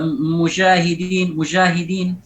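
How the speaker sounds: "musyahidin" with a hushing zh for j; jim blended with shin. Shown as a demonstration. Teacher repeats the earlier example of mistake, fricative jim. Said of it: "khaltu sawtiha bishin".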